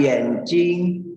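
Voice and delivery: slow "yenjing", tone three then tone one; "yenjing" with "jing" in level first tone; third then first tone. Shown as a demonstration. Teacher reading out the word for eye, "yenjing" in third and first tones. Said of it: "nada ketiga dan pertama".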